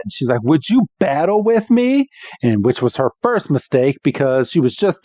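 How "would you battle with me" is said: higher-pitched play-acted kid's challenge; imitated hopeful request; Iris. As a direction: ask like an eager youngster.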